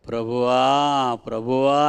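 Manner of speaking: ప్రభువా stretched slowly twice, pleading; drawn-out mock pleading. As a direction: drag out ప్రభువా ప్రభువా like a hollow plea. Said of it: "అని నన్ను పిలుచుట". (నెమ్మదిగా సాగదీసిన ప్రభువా ప్రభువా)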